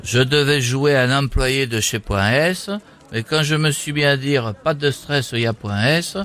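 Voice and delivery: put-on deadpan politician with southern French accent; mock party-leader storytelling; Eric Ciotti. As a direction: recount it formally, accent leaned on. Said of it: "avec mon accent".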